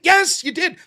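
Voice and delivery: insist, reenacting a heated comeback; retold emphatic protest; animated comeback. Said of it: "I got a little fucking animated".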